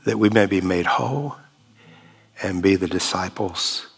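calm, earnest spoken prayer. Real, not acted. Pastor prays over the congregation, calm and earnest. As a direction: pray humbly for the wounded.

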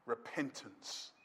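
very low, slow, hushed "Repentance"; solemn repetition. Real, not acted. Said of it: "I'll say it again".

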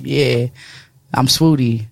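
calm, low and unbothered; unfazed. Retold or imitated. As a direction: shrug it off, totally unimpressed. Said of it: "he's just unfazed".

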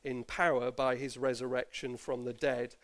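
measured, solemn Bible reading to the congregation; formal church reading of Romans; scripture reading. Acted. Bible passage read aloud.

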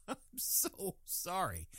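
slow, laughing through the words; laughing apology. Real, not acted. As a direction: apologize while cracking up.

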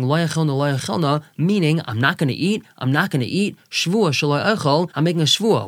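sarcastic mock refusal, half-hearted. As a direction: say it with a wink, not meaning it. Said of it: "saying it sarcastically".

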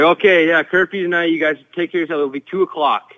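mock locker-room announcement; imitated coach's announcement. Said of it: "And he's like".

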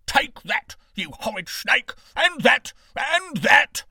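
high furious shouting as he strikes. A narrator's reading. Beggar beating the green snake, shouting. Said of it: "a cry caught her attention".

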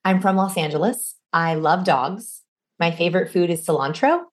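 two plain statements, then "cilantro" lifted like a question; asking the lie. Shown as a demonstration. Coach plays two truths and a lie, questioning lilt on "cilantro". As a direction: state the facts, then let "cilantro" rise uncertainly at the end. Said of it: "accidentally ask their lie".

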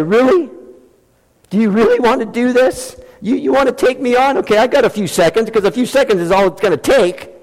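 a fighter laughing off an amateur; champion boxer taunting. Retold or imitated. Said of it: "he would say".

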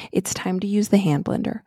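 breathy whispered aside, no voice. Real, not acted. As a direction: whisper it like a secret warning. Dramatic hush before the mixer.

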